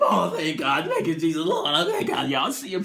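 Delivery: relieved thanks through laughter; laughing relief. Retold or imitated. Relieved passenger thanking God, laughing. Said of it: "relieved passenger".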